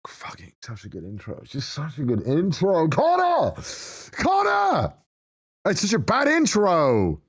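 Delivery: exasperated cringe. Real, not acted. Streamer berating their younger self over the intro, exasperated cringe.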